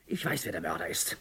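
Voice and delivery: a sinister low confession building; low menace. Acted. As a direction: murmur it with quiet threat. Sudden low menacing line.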